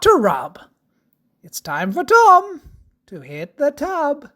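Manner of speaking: lilting rhymed storybook read; sing-song rhyming verse; children's story narration. Acted.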